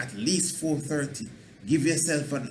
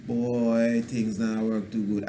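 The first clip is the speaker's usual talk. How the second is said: defeated lament; 4 semitones lower, slower than usual. Shown as a demonstration. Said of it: "Just say to yourself".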